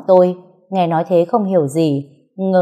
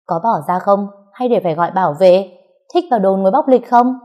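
rising, louder bullying threat; 3 dB louder than usual. Acted. The girlfriend threatening the husband, loud and rising. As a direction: bark it out to scare him off. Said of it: "to mồm dọa".

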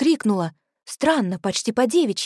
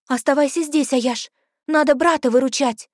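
urgent; 5 semitones higher, 3 dB louder than usual. Acted. Urgent call in danger.

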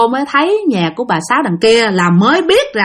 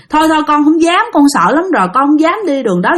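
slightly raised, hasty pleading; frightened refusal; 4 semitones higher than usual. Acted. Woman tells her aunt she dares not return, scared. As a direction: back away from it, insisting never.

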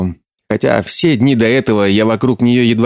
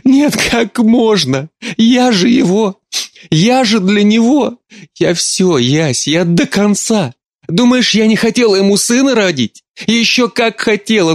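sobbing; 11 semitones higher than usual. Acted. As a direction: cry it out in broken phrases. Mother sobbing confession.

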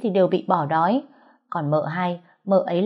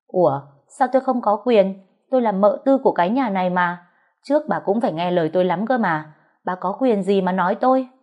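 defiant retort. Acted. Thùy defies dì Năm.

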